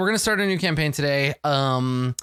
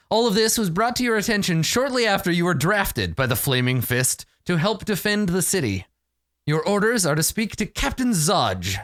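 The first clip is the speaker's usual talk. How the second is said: measured, dramatic game master narration; Dungeon Master voice. Acted. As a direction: read it like fantasy boxed text, with weighty pauses. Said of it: "put on my best Dungeon Master voice".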